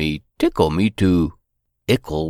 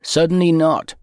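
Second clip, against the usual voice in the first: gentle father; 9 semitones higher, 3 dB louder than usual. Acted. Father answering daughter.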